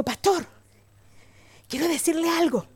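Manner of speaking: soft, shy approach to the pastor; confiding softly. Retold or imitated. Small woman approaches tall pastor to tell him something, soft confiding. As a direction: keep it small and hushed, as if leading into a secret. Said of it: "es que es un secreto".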